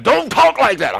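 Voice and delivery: high, squeaky mock scold; mock scolding congregation. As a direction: mimic a churchgoer tutting at you in a high voice. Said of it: "some of y'all like".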